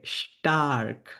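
স্টার্ক as slow "sh-tark"; German pronunciation demo. Shown as a demonstration. Teacher models word for strong, স্টার্ক slowly split. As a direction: hold the "sh", then open up স্টার্ক. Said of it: "এরকম উচ্চারণ হয়".

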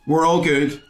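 high, lifted reassurance; relieved singsong acceptance; bright relief. Retold or imitated. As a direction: pitch it up as if all is well. Feigned relief at heckler's nod.

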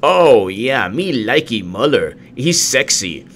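slow, dumb swooning fan voice; mock dopey commenter. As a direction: gush like a lovesick simpleton. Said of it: "they're like".

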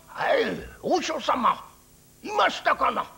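lightly voiced old countryman; a simple old farmer answering the priest; old villager voice.

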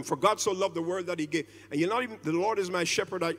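rushed reading. Retold or imitated. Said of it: "sometimes we read these verses and we just go".

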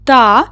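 teacher sounding out «Та» for pupils; syllable said alone. Shown as a demonstration. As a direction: isolate the syllable «Та» for the class. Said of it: "Останній склад який?".

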